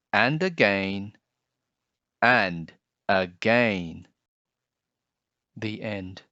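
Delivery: expressive storybook read-aloud; gentle picture-book narration; reading to children. Acted. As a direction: read it like story time for kids.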